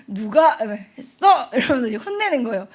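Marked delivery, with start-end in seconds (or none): 0.1-1.5 loud, stern changed voice; stern teacher voice. Retold or imitated. Teacher confronting the kids, loud stern voice. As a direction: demand to know who did it. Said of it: "그래서 목소리 변조".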